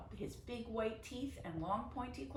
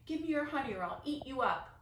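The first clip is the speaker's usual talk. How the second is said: loud, higher bear roar; 6 semitones higher, 6 dB louder than usual. A narrator's reading. The bear jumps down at Grandpa, loud roar. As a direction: growl it out like a big bear. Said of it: "jumped down and roared".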